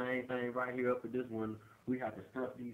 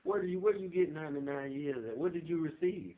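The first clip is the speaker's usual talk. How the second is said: raised pitch, stumbling incredulous questions; astonished questioning; 5 semitones higher than usual. Real, not acted. Interviewer asking what earned ninety-nine years, flabbergasted. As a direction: press for the answer in sheer disbelief. Presses inmate, astonished at the sentence.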